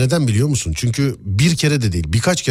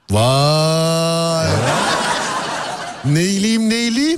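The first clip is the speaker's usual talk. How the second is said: high mock sing-song; 8 semitones higher, much slower than usual. Mocking sing-song banter.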